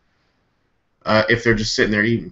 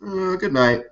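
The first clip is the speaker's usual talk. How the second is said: mock dying cop; 7 semitones higher than usual. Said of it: "he just goes".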